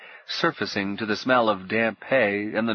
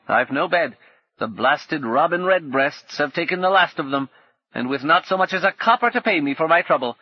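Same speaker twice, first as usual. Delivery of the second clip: put-on a bitter old woman, pitched higher and louder; 5 semitones higher, 5 dB louder than usual. Old woman complaining to Paul, higher and louder. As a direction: grumble like a worn-out old crone.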